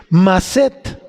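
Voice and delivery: "maset" said slowly, weight on the last syllable; stress on final E. Shown as a demonstration. Teacher introducing a Hebrew word, "maset" stressed on the E. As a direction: stretch out "maset", accenting its E. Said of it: "sin la A y acento en la E".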